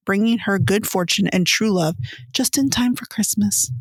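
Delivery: evenly paced reading of a blurb; synopsis read-aloud. Real, not acted. Podcast host reading the movie summary to co-hosts, read-aloud style.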